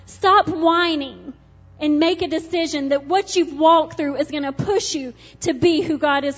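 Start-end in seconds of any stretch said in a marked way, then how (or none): 0.1-1.3 stern rebuke. Acted.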